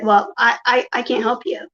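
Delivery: imitated halting stammer; stuttering. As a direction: stumble on the first word, imitating him. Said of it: "like, stuttering and he's like".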